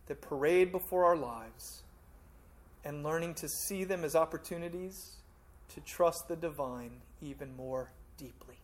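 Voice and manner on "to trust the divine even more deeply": whispered, intimate ending; hushed close. Real, not acted. Preacher urging the congregation to deeper trust, in a whisper. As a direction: drop to a whisper to draw them in.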